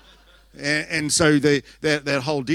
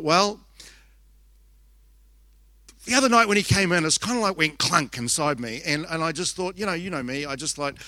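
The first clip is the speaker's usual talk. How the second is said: higher-pitched, run-on retold babble; nervous babbling; 4 semitones higher than usual. Mother nervously filling the silence with her son, babbling. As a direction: blurt it out in one rambling string. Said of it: "I was starting to babble a little bit".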